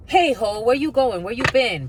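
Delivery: loud teasing call after someone; mock call out. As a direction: shout it across the street like a catcall. Calling out to a hoe.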